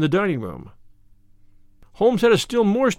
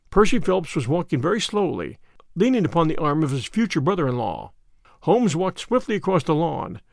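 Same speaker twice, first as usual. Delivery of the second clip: ordinary delivery, nothing marked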